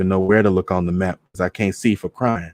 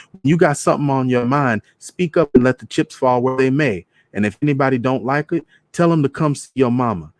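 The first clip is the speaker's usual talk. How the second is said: put-on a touch higher, firm mama advising her girl; lightly voiced mother laying down the law; mama telling her daughter to speak up, firm; mama's voice; 5 semitones higher than usual. Mama quoted giving advice.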